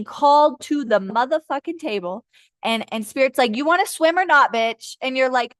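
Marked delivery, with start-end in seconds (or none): 3.6-5.0 higher, pushy challenge; impatient mock demand. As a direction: voice an impatient spirit pushing someone. Voicing impatient Spirit.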